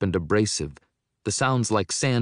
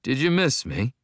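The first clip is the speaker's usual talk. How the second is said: higher and louder, gloating; sly taunt; 6 semitones higher, 5 dB louder than usual. A narrator's reading. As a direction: lean in with a cruel smile. Villain taunts narrator on reveal.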